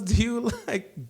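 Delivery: high-pitched put-on Latina accent; imitated Latina voice, high and lilting; Mauricia. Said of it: "does a really good, like, Latina accent".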